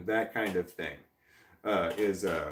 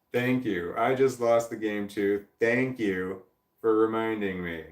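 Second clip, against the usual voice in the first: mock gratitude, deliberately sarcastic; sarcastic thanks. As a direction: thank them as if you mean the opposite. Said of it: "That was sarcasm".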